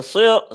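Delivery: heavy ص in সি-, said on its own; teacher's demo. Shown as a demonstration. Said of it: "সাদটা নিচের দিকে".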